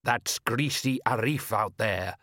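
slow, irritable father; mildly cross fisherman; snapped. Acted. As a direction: snap it with drawn-out contempt. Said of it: "snapped his father".

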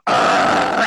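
breathy voiceless dog snarl; imitated dog snarl; dog growl. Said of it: "looking right at me going".

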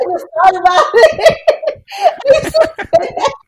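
helpless, high-pitched laughter through the words; real laughing fit, words squeezed out high; laughing hard. Real, not acted. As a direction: talk while cracking up. Cracking up at a memory.

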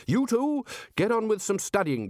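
put-on Ridcully dismissing the young men; bossy Archchancellor. A narrator's reading. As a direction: shoo them off to study. Ridcully orders students.

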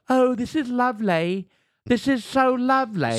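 lightly put-on Irish lilt, high; a hint of an Irish wife savoring drinks; Irish accent. Retelling the Irish wife, light high Irish lilt. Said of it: "And she was like".

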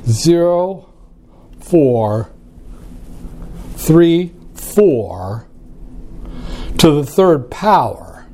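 slow, number by number; dictating. Shown as a demonstration. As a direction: read each digit out slowly for the calculator. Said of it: "let me take".

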